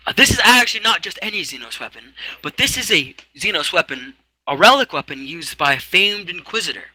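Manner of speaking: high fussy clerk reading out. Acted. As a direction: play a prim little scribe. Clerk reads from book.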